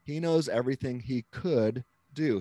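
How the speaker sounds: heavy emphasis on "could"; stress on COULD. Shown as a demonstration. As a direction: put the weight on "could". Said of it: "the heavy emphasis on the word could".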